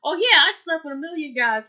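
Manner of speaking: mock sarcastic. Fiancée brushing off his cheating question, mock sarcastic. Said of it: "she was being sarcastic".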